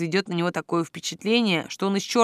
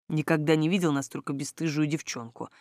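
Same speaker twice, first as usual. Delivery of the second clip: lower, softer exhaled remark; barely audible exhale; 4 semitones lower, 6 dB quieter than usual. A narrator's reading. Man reacts to heroine's teasing, barely audibly. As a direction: say it under the breath, softly. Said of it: "Едва слышно выдохнул Вэйшэнг".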